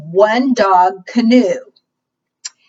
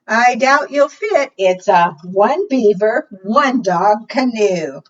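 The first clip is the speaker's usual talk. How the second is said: put-on doubtful girl; 3 semitones higher, 4 dB louder, slower than usual. Girl telling the loon it won't fit, mildly doubtful. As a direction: count the passengers doubtfully.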